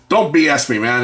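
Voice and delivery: impatient shop owner, retold; mock no-nonsense demand. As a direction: call his bluff, lightly acted.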